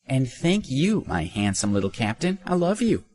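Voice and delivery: high, flirty thanks; gushing streamer. A narrator's reading. Streamer flirting with a gift sender, gushing. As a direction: gush sweetly at an admirer.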